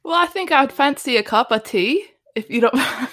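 loud breathy tipsy whisper; giggly sloshed posh ask; drunk English mum. Acted. Drunk mother improv asks for tea.

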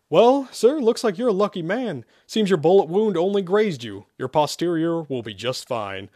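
high, lilting voice of a nurse; female nurse. Acted. Nurse tells patient his wound is minor, lilting. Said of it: "a female said".

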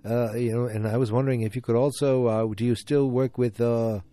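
hammed-up senator on the phone, halting and loud; bad Robert F. Kennedy impression. Prank caller posing as the senator, in a bad put-on Boston voice. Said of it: "the worst Robert F. Kennedy impression ever".

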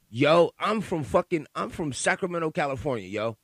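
loud, New York-tinged street talk; New York twang. Real, not acted. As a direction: catches himself sounding like a New Yorker, loud. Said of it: "got me talking like I'm from New York".

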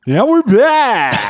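slow, high radio host voice; drawn-out, booming host welcome; talk show host. Acted. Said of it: "I could do my talk show host radio voice".

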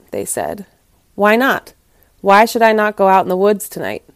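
expressive, dramatic storyteller read; story narration. A narrator's reading. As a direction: read it aloud like a fable with lively emphasis. Reads the story aloud.

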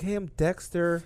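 high, slow cartoon voice; Dexter. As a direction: imitate an accented cartoon boy scientist. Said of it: "gave him an accent".

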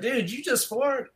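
high, drawn-out incredulous question; high-pitched mock disbelief; incredulous classmate. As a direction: mimic a kid baffled by a stink. Classmate reacting to stink bomb smell.

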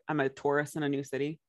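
Taurus said like "tor-ist"; her Taurus. Shown as a demonstration. Friend showing how her Taurus sounds like tourist. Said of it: "I can't say that word very well".

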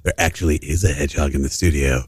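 low radio host voice; sexy radio voice. Acted. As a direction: talk low like a late-night DJ. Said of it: "This is our sexy radio voices".

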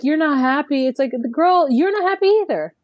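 voicing her with a high whine, half-mocking; mock whiny voice. Host mimics the girlfriend complaining about her man, high mock whine.

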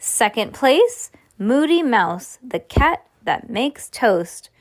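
slow, drawn-out prize announcement; measured prize-giving delivery; contest announcer. A narrator's reading. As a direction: stretch out the winner's title for suspense.

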